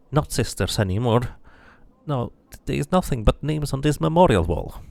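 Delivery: anguished cry over her murdered sisters; distraught scarred woman. Acted. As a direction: pour out the grief of losing her sisters. Woman tells of her attack.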